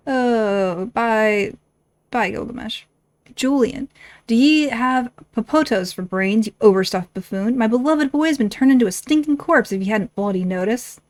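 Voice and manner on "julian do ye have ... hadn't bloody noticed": a hint of an indignant mother; lightly voiced scolding wife. Wife berating her husband over their boy, mildly indignant. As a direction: scold him, lightly acted.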